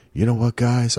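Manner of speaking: lightly imitated co-host; a hint of someone else's voice; Brett impersonation. Host filling in for muted co-host, light impersonation. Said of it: "I'm gonna do my Brett impersonation".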